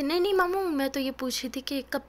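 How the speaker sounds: high, loud panicked cover-up; flustered loud denial. Acted. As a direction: blurt it out to the uncle, caught red-handed. Friend caught, loud flustered cover.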